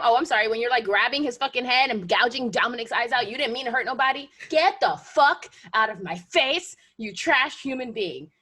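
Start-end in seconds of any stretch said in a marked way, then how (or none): 4.5-8.3 slow contempt. Real, not acted. Ranting at Seth Rollins.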